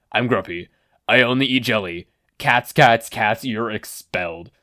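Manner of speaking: tired, grumpy teacher voice, the last words slow; grumpy teacher impression. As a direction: mimic a worn-out homeroom teacher. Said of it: "The spot-on impression".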